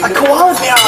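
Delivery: hammed-up American accent. Shown as a demonstration. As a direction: exclaim it as an excitable American.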